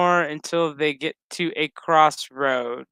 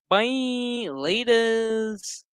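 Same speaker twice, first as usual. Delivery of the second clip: breezy goodbye; 7 semitones higher, much slower than usual. Retold or imitated. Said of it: "was like".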